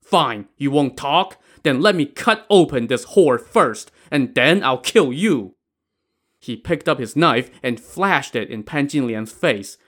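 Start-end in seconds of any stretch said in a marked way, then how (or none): 0.0-5.5 angry, moderately raised voice; roared threat. Acted. Brother threatens to kill both women, angry. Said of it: "Wu Song roared".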